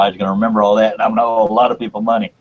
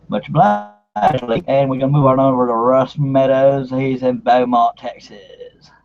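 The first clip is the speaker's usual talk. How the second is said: higher-pitched put-on Texas-style accent; 3 semitones higher, slower than usual. Host handing over to Russ in Beaumont, put-on accent. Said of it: "I don't know why I said it in that accent".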